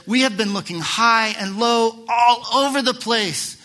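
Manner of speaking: high, loud anxious call; Mary's loud cry. Retold or imitated. Mary crying out to Jesus, high and loud. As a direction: call it out so the whole courtyard hears. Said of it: "that's the translation".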